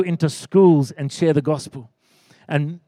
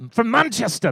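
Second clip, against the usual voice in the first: softer, higher mock Manchester accent; 5 semitones higher, 4 dB quieter than usual. Pastor showing how locals say their city, mock Manchester accent. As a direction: imitate a Mancunian saying the city's name. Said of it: "That's how they say it".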